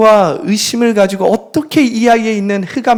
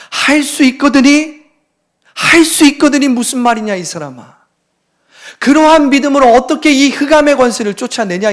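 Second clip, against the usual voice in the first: rebuking Jesus voice; 4 semitones higher, 4 dB louder than usual. Acted. Jesus rebuking the father, acted.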